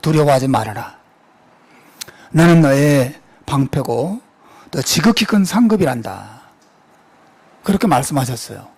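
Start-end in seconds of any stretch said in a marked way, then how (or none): 0.0-6.4 reassuring God. Retold or imitated. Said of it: "환상 중에 나타나시죠".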